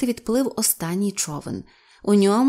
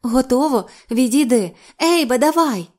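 high, loud commands; calling out orders; 4 semitones higher, 5 dB louder than usual. A narrator's reading. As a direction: call the cue to the cameraman. Actress calls orders to cameraman.

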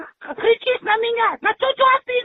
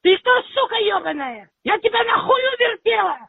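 shouting match; 2 semitones higher than usual. Real, not acted. Phone quarrel, cursing caller.

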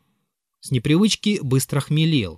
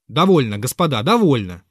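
slightly louder, lordly "Довольно"; commanding shout; 3 dB louder than usual. Acted. Zverkov stops the quarrel at the table, a commanding call. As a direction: cut them off with authority. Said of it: "закричал всевластно Зверков".

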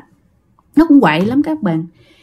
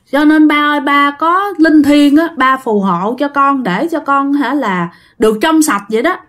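praying to father; 3 semitones higher than usual. Retold or imitated. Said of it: "chị gái mới khấn vái như vậy".

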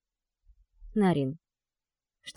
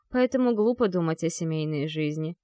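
plain reading voice

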